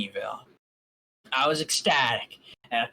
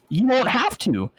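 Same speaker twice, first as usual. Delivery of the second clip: gentle princess; 9 semitones higher, 7 dB louder, slower than usual. Acted. Celestia reassures, voiced figure.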